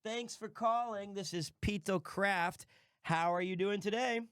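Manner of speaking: chirpy customer-service greeting; receptionist voice. Pretend. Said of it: "the girl voice that you do".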